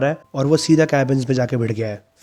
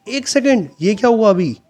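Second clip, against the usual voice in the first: shrieked much higher and louder; screaming; 10 semitones higher, 7 dB louder than usual. Acted. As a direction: yelp in shock while being beaten. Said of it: "चीखते हुए कहता है".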